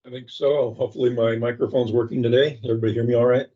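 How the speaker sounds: muffled, like through a wall; muffled mic sound. Real, not acted. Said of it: "Sounds like I'm muffled".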